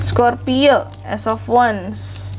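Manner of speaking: stuffy nose from a cold; blocked nose. Real, not acted. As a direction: speak through a blocked nose. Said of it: "hidung aku mampet ya". (suara hidung mampet karena flu)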